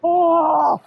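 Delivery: gasping at freezing water; shocked by the icy cold; in ice cold water. Real, not acted. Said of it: "Elle est gelée".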